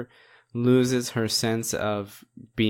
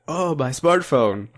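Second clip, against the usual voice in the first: mock dismayed monk; 4 semitones higher, 5 dB louder, slower than usual. Monk's phone gets broken.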